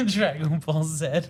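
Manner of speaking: slow, loud Dragon Ball Z with a Japanese-style sɛ for Z; drawn out Dragon Ball Z. Shown as a demonstration. Correcting a friend's pronunciation of Dragon Ball Z, slow. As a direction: stretch Dragon Ball Z out and end on sɛ. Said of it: "That's not right".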